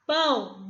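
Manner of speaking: PÃO said alone, after a pause; separate syllable. Shown as a demonstration. Teacher counting Japão's syllables with pupils, syllable by syllable. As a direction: set PÃO apart as one syllable. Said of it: "pronuncie a palavra Japão e conte no dedo".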